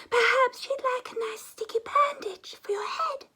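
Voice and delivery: put-on high, whispery child's voice; gentle little girl. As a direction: soothe him like a kind little girl. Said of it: "she said".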